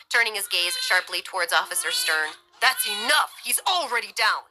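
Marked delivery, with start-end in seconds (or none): 2.6-4.4 raised, high-pitched commanding shout; yelling. A narrator's reading. Bryce to the officer, urgent yell. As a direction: yell to stop him, urgently. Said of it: "Bryce yelled".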